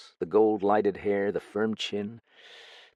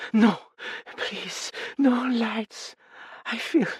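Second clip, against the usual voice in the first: higher, pleading, short of breath; breathless cry; slower than usual. A narrator's reading. Frightened young woman pleading against the lights, breathless. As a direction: beg them to leave the lights off. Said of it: "cried, rather breathlessly".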